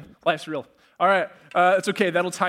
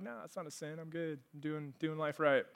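much softer, mock reassurance to oneself; self-justifying murmur; 11 dB quieter than usual. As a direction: talk yourself quietly into feeling fine. Voices self-justifying inner talk.

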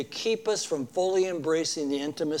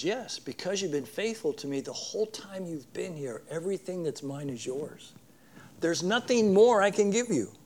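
gentle reassurance. Retold or imitated. Father reassures older son.

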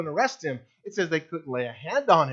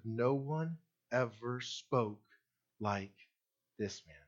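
awed hush; 8 semitones lower, 12 dB quieter, slower than usual. Acted. Officers' awed answer retold.

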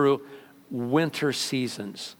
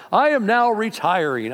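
retiring fighter; 6 semitones higher, 5 dB louder than usual. Retold or imitated. Beaten fighter announcing retirement.

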